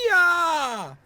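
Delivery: high, loud playful roar; mice roar. Acted. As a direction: roar to scare the crow away. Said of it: "roared at him".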